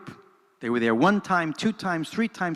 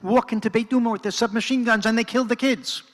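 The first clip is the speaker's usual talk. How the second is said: insistent; 5 semitones higher than usual. Retold or imitated. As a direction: drive it home, almost pleading. Jamal explains the kids' fear.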